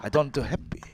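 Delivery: laughing impression of mom denying happiness; laughing mock mom. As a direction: giggle out her denial. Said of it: "She was like".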